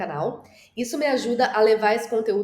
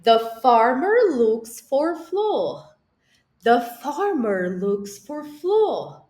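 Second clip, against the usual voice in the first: slow model sentence; 4 semitones higher, 4 dB louder, much slower than usual. Shown as a demonstration. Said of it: "Agora eu digo em inglês com os gestos".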